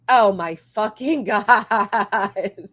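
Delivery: slow, stunned words broken by a laugh; laughing in disbelief. Real, not acted. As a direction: laugh it out, can't believe it. Overwhelmed by big donation.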